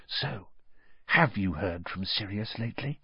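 hushed aside to a friend; very quiet. A narrator's reading. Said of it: "said very quietly to Harry".

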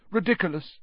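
easy, unforced incantation; almost lazy. A narrator's reading. Professor casually dispatching the boggart, almost lazily. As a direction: toss the spell off without effort. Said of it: "almost lazily".

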